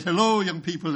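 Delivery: badly faked Argentinian accent; miserably mimicked Argentinian accent. Argentinian evangelist greeting the students, poorly imitated accent. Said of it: "in his Argentinian accent, which I tried to mimic f-, miserably".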